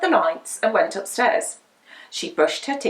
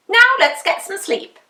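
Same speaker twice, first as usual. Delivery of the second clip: sleepy witch; 9 semitones higher, 4 dB louder than usual. A narrator's reading. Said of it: "said Winnie".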